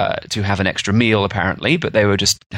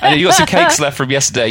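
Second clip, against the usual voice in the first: much higher mock servant asking; high-voiced servant; 4 dB louder than usual. Staff asking colleague about leftover cakes, in a high mock voice. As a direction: squeak it up like a fussing maid.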